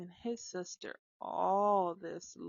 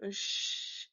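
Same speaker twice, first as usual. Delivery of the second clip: retold shush. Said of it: "Why you so loud, Mom".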